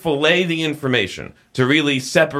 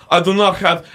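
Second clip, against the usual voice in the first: mock Russian accent with throaty H; 6 semitones higher than usual. Shown as a demonstration. Host demonstrates throaty Russian consonants, mock Russian accent. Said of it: "instead of a".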